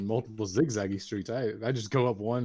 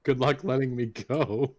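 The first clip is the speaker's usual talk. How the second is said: slow theatrical villain menace; 3 semitones higher, 4 dB louder, slower than usual. Acted. Threatening grab, villain play.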